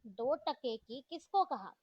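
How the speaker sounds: put-on angry girl challenging an insult, mildly loud; irritated demand. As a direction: lean hard on किसको in offense. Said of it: "Tania ये सुनकर चिढ़ गई".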